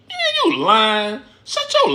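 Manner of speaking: high, slow, laughing jeer at a liar; laughing call-out. Real, not acted. Calling out the lying mom.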